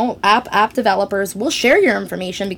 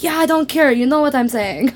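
dismissive mother; 5 semitones higher than usual. Retold or imitated. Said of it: "And she's like".

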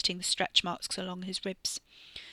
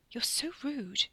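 muttered; 6 semitones higher, slower than usual. A narrator's reading. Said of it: "Katie muttered".

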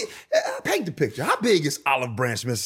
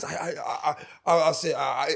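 stuttering. Retold or imitated. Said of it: "if you hear me stuttering".

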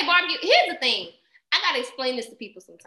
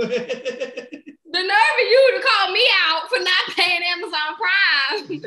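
slow, drawn-out words through laughter; laughing mock outrage; 5 semitones higher, 4 dB louder, slower than usual. Daughter laughing at her mother's nerve over Amazon Prime. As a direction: stretch it out, laughing in disbelief.

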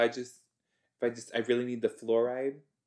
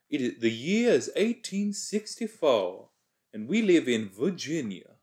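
mock Southern accent; 3 semitones higher than usual. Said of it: "Is that the right accent?".

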